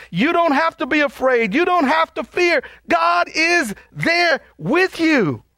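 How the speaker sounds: full-voiced reassurance, slowing on the last line; preaching shout. Real, not acted. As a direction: call it out to the back pews. Preacher driving home reassurance.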